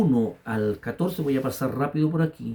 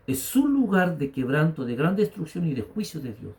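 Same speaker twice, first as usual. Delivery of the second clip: raised preacher's voice with stretched key words; forceful preaching; 4 semitones higher, 4 dB louder than usual. Real, not acted. Pastor warning the congregation about the devourer, preaching forcefully. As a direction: preach it with punchy, high line openings.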